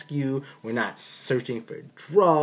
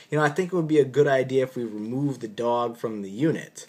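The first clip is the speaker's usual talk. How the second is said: most respectful voice. Retold or imitated. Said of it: "in my most respectful voice".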